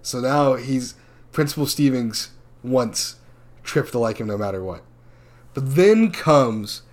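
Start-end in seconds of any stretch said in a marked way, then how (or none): 5.5-6.8 slow, drawn-out movie trailer build-up; dramatic announcement. Retold or imitated. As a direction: present the bad boy like a trailer voice. Dramatic intro of bad boy.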